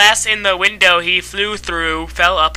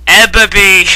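calling out; 7 dB louder than usual. Acted. Calling out name.

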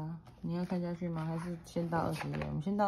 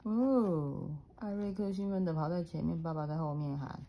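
put-on reading to a toddler; 3 semitones higher than usual. A narrator's reading. Mother reads picture book aloud.

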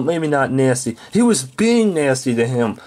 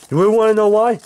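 rising angry challenge; 4 semitones higher, faster than usual. Acted. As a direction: push it up into a taunt. Repeats the threat, escalating.

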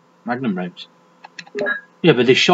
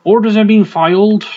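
higher-pitched put-on West Country voice; jokey West Country read-out; West Country accent; 5 semitones higher than usual. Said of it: "I'll stop with the accents".

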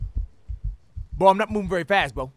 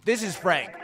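normal talking voice

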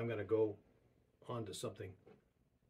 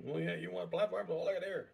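pointed tone; 6 semitones higher than usual. Retold or imitated. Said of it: "driving the point home strongly".

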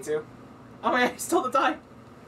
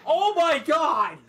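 shocked laughter; 4 semitones higher, 4 dB louder, much slower than usual. Real, not acted. Die roll goes wrong, laughs.

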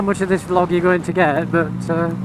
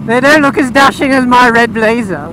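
put-on a touch of a snooty posh kid; lightly voiced prissy child sniffing at bikers. Posh child telling Daddy the bikers look scruffy, mildly snooty.

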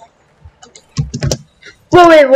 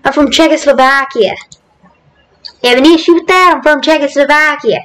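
lightly put-on Boston accent; faster than usual. Gamer jokingly claiming to be Czechoslovakian, light Boston accent. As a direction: play a local with a touch of Boston. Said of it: "say it with a Boston accent".

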